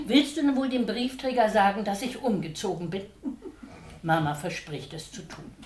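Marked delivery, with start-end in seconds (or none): 0.1-3.1 laughing. Acted. Pelle's request, laugh heard.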